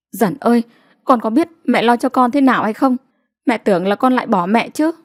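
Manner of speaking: lightly voiced anxious mother, fast; a hint of a fretful village mother; worried mother. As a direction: scold out of relief, quickly. Mother scolding worried daughter.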